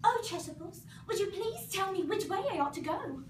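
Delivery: politely asking the Cheshire cat the way; Alice's voice. Acted.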